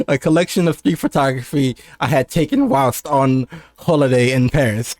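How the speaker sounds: lightly affected European reading; sounding European. Shown as a demonstration. Streamer rereads his whilst-on-holiday line, sounding European. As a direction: put on a slight European air. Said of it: "like, sound European".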